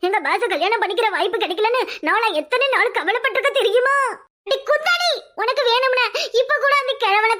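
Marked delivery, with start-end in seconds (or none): 4.5-7.4 high, sharp furious jab; scornful outburst; angry insult. Acted. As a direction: spit the insult at her. Insulting the gang member.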